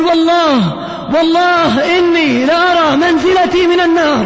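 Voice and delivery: restrained imitation of a dying girl's cry; mild retold cry. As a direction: cry it out in retelling, without shouting. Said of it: "وتصرخ".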